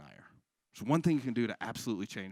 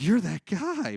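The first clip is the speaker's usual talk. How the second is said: accusing shout; 7 semitones higher, 7 dB louder, much slower than usual. Acted. Acted confrontation, louder take.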